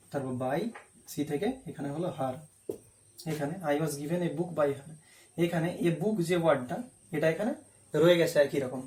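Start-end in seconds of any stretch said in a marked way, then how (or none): 3.7-4.9 slow, carefully spaced example sentence; slow dictation. Shown as a demonstration. Teacher giving the passive form to students, slow and deliberate. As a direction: read it out slowly so students can copy.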